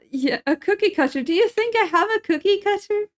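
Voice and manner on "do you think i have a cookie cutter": incredulous question. Real, not acted. Incredulous reply to chat.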